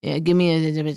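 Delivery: a lightly voiced smug diner ordering; imitating diner. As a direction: toss off the order like a smug guy. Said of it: "He goes like this".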